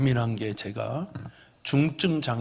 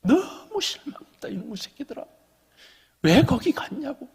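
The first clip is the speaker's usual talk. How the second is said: retold scolding; 11 semitones higher, 4 dB louder than usual. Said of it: "한 시간 내내 혼냈어요".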